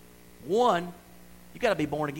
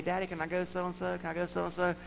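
put-on pleading child; 5 semitones higher than usual. Child begging father, voiced.

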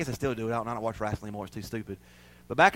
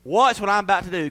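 steady, raised proclamation; Moses commanding; 4 semitones higher, 3 dB louder than usual. Acted. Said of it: "And Moses saying".

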